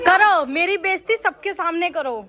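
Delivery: loud, slow, hammed-up hurt protest; mock offended outburst. Mock hurt complaint at family. (नाटकीय नाराज़गी से ज़ोर से)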